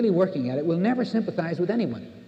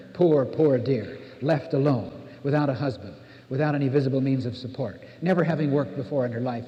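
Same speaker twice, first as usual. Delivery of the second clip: mock pity; 2 semitones lower than usual. Mock sympathy quote of onlookers.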